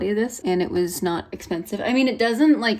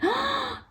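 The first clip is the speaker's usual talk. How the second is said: delighted gasp; 5 dB quieter than usual. Real, not acted. Sees her shimmery highlighter.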